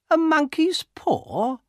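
very high, slow, incredulous woman's voice; astonished question. A narrator's reading. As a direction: stretch it out in high disbelief. Missus White astonished at news.

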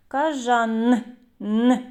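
Кажан then a lone н, held apart; sounding out a syllable. Shown as a demonstration. Teacher finishes sounding out кажан for kids, sound by sound. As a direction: end on the separated н sound. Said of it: "Твердий приголосний позначаємо".

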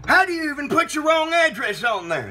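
high, indignant burst; exasperated outburst. Acted. Host at caller's wrong address, high exasperated outburst. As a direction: leap up high in disbelief.

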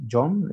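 "John" con consonante inicial suave y sonora; sonido suave CHH. Shown as a demonstration. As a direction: pronunciar "John" con una j inglesa. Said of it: "no sé si lo estoy pronunciando bien". ("John" con sonido suave y sonoro, como en zapoteco)

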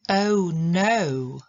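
"Oh no" said with a hard "ch", like "och no"; wrong ch sound. Shown as a demonstration. Teacher demonstrating the common mistake, wrong ch sound. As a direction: mispronounce "Oh no" as "och no". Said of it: "osoby czytają to ch".

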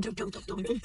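imitated car noise. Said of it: "That shit said".

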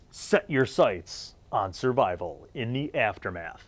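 slow, slightly hushed tagline read; understated trailer-style tagline. Acted. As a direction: read the slogan slowly for effect. Reading out an ad tagline.

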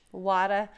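Wada said with an ah vowel and no r; Katie's New England water. Retold or imitated. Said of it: "Katie says Wada".

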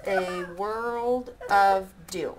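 slow, even haiku reading; corrected take. Shown as a demonstration. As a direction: reads the line slowly and carefully. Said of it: "Wait, I didn't do that right".

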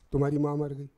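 loud, unemotional cue line; loud announcement. Shown as a demonstration. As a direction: deliver the news loudly, pitch level. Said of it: "जोर से बोलो".

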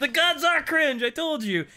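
high, loud I-told-you-so; loud squeaky gloating; gleeful gloat. Retold or imitated. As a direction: crow it triumphantly. Voicing Perturabo gloating.

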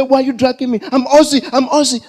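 mock protest. Customer dragged out by security.

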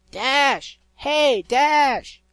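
loud high call across the sky. Acted. Griffin calling up to her old friend, loud high shout. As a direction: shout up to a friend far above.

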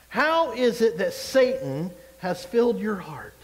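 slow, solemn scripture reading; slow weighty reading. Shown as a demonstration. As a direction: read slowly, letting each word weigh. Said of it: "I like to pause and think about things".

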